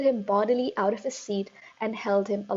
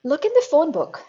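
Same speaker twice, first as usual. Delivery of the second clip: put-on higher, eager boy's voice; 7 semitones higher, 8 dB louder than usual. A narrator's reading. Eric answering the headmistress, higher and eager. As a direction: pipe up like a bold schoolboy. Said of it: "Eric said".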